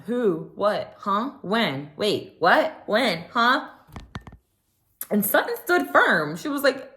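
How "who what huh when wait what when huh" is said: mock confused, quick questions pitched higher; hammed-up clueless innocence; playing dumb. Mocking Kyle dodging Sutton's infidelity point, faux-confused. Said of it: "here goes Kyle playing dumb".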